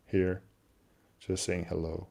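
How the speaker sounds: ordinary delivery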